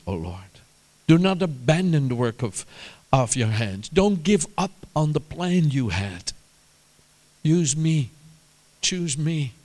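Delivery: heartfelt petition with pauses; earnest prayer. Acted. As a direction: plead with God, phrase by phrase. Prays aloud to the Lord.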